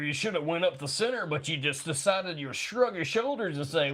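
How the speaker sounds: a hint of sports commentator voice; John Madden commentary. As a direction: break down the play like a commentator. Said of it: "You're fucking John Madden in your own life".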